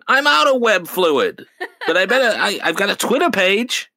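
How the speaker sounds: hammed-up Spider-Man through laughter; laughing mock Spider-Man. Spider-Man out of web fluid, high and laughing. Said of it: "he's like".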